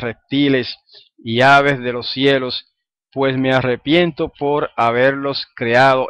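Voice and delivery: slow, deliberate reading of the verse; scripture reading. Acted. Teacher reading Genesis to the class, slow and solemn. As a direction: read the verse with weight, slowly. Reads verse seven aloud.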